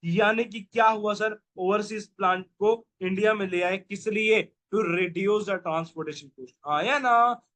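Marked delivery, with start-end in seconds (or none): 4.7-6.5 words spaced out very slowly for notes; slow dictation. Shown as a demonstration. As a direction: spell out the answer word by word. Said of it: "dictating answer slowly". (बहुत धीरे धीरे लिखवाने वाला अंदाज़)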